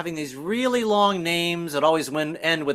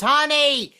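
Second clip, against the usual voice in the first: high, slow call from a window; yelling down; 10 semitones higher, slower than usual. Retold or imitated. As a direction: shout it down six floors to the street. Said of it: "yell down six stories".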